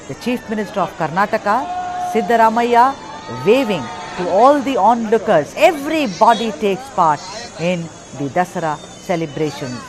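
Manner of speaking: emphatic TV presenter's commentary; festival news voice-over. Real, not acted. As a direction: present it grandly, punching key names and phrases. Presenter narrates festival report over visuals.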